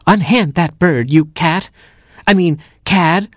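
high-pitched storybook challenge; heroic cry. Acted. Little hero ordering the cat to free the bird, high heroic cry. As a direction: cry it out as a would-be superhero. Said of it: "cried Little Red Robin Hood".

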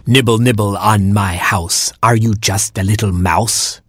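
lightly voiced crone, sing-song chant; old porcupine voice. A narrator's reading. Old porcupine calling to nibblers on her house. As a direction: croon the rhyme like an old granny. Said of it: "she cried".

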